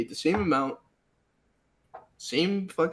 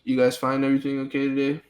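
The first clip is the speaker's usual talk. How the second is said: bored, dead-eyed cashier voice; a lifeless register clerk greeting; flat rote cashier. Retold or imitated. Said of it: "she looks the same exact way as I do".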